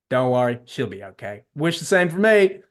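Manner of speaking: breezy, badly faked Texan; terrible Texan accent. Dean reassures the woman on his way in, in a terrible Texan accent. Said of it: "the main guy has a Texan accent".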